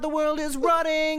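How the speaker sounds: high, slow, hammed-up doomsday wail; mock panic. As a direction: wail it like the world is ending. Mock panic about global warming.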